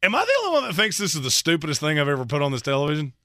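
quick retold aside of disbelief. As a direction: rattle it off like a shared baffled thought. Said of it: "looked at each other and went".

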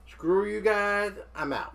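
high-pitched cartoon brat impression; Cartman. Quoting a cartoon catchphrase to co-hosts, high-pitched brat impression. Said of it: "in the famous words of Cartman".

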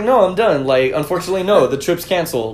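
lightly voiced Trump, Baldwin-style; a hint of a sulking president; Donald Trump impression. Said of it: "the best Alec Baldwin impression of Don".

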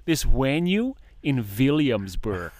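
"venue" said with a W, slow mock German; V and W split. Shown as a demonstration. Showing friends how the teacher said "venue", with a W. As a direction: swap the V for a W in "venue", slowly. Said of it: "the V and W split".

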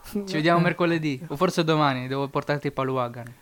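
caller heard through phone speaker; distant voice from a phone; on speakerphone. Real, not acted. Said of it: "Metti viva voce".

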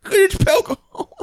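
high, slow mock ad voice; hammed-up slogan. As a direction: squeal it like a silly ad.

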